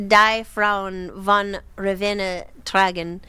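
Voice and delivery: slow recital of "Die Frauen von Ravenna tragen"; recited German poem. Acted. Narrator reciting Hesse to the visitor, slow German verse. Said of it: "I recited a poem I know by Hermann Hesse".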